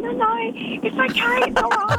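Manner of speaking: high, hurried "no no, it's fine"; flustered reassurance. Retold or imitated. Reassuring the apologising husband.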